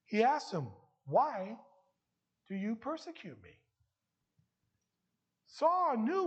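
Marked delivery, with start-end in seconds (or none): 1.0-3.6 convicting. Acted. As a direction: press the question, then let it drop. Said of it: "it was a convicting voice".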